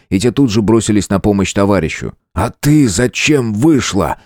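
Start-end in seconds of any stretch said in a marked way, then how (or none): 2.3-4.2 angry question. Acted. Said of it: "Гневно посмотрел на девушку".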